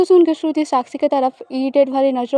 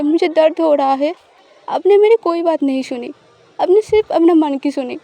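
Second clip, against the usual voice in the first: angry reproach; 2 semitones higher than usual. Acted. Shruti angrily confronts Sakshi.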